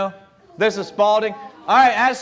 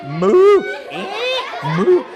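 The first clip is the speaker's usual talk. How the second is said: mock cow moo, louder; loud comic moo; silly cow impression; 11 semitones higher, 5 dB louder, slower than usual. Imitating a cow again.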